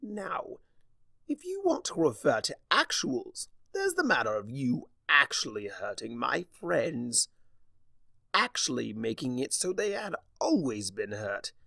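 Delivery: a sneering chaos spirit taunting; Discord voice. Acted. Discord taunting Starlight face to face, sneering.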